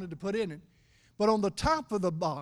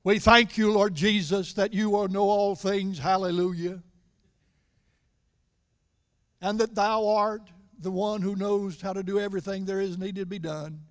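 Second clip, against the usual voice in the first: a lightly hammed-up formal prayer, louder; mock pious prayer; 5 dB louder than usual. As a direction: pray with exaggerated piety. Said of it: "They didn't go say".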